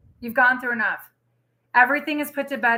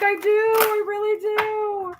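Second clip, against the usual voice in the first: high, drawn-out mock bawl; mock sobbing; 9 semitones higher, slower than usual. Retelling her tearful answer to her friend, mock sobbing. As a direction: wail it like an exaggerated crybaby. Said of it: "I'm, like, sobbing".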